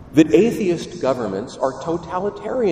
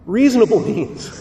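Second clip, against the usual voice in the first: Reasonable hit hard, higher and louder; punchy emphasis on Reasonable; stress on Reasonable; 6 semitones higher, 5 dB louder than usual. Real, not acted. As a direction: lean heavily on the word Reasonable. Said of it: "Heavy emphasis on the word reasonable".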